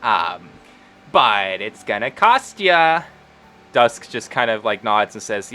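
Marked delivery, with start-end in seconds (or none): 0.0-3.0 sweet sales patter, stretching out the catch at the end; halfling saleswoman Wendy. Acted. Voices Wendy making a sale.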